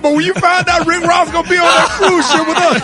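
laughing tease. Real, not acted. Teasing Gary, laughing.

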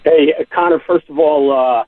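normal talking voice

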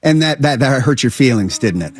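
gentle, leading question, sinking at the end. Acted. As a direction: coax an admission, trailing down softly. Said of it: "just a little bit softer".

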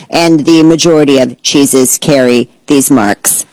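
lightly voiced robot reading dry science. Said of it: "say it in a robot voice".

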